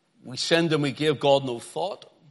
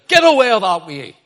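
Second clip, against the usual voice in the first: loud emphatic Ulster Scots; 5 semitones higher, 12 dB louder than usual. Shown as a demonstration. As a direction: shout "Get away that way" in Ulster Scots. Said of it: "That's the way it would read in an Ulster Scot dialect".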